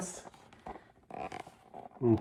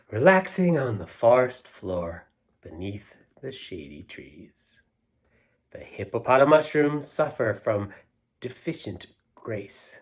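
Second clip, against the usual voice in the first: poem reading; 3 dB louder than usual. Acted. Reading a silly poem aloud to the kids, rhythmic and lilting. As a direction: savour each line for the kids.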